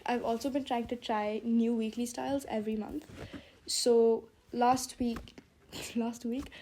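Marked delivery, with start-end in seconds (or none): 3.7-5.4 slow, sore-mouthed stumble; sore mouth from braces. Real, not acted. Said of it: "wow, my English is". 6.0-6.5 stumbling with a laugh; talking through sore braces; sore mouth from braces. Real, not acted. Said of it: "wow, my English is".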